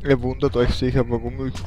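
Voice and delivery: talking with chocolate in mouth; words round a piece of chocolate; mouth full. Real, not acted. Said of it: "mit vollem Mund spreche". (mit vollem Mund gesprochen)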